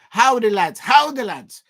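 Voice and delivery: loud, badly faked Geordie greeting; Newcastle accent. Shown as a demonstration. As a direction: try a Newcastle accent, pushing up on the repeat. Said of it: "it's difficult to do the Newcastle accent".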